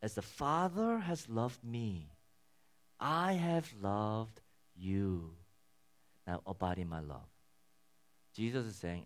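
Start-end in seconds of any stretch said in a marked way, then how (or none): 0.0-7.3 slow, deliberate scripture reading; unhurried reading of the verse; read slowly. Shown as a demonstration. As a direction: let each word land slowly. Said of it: "Let me read that slowly".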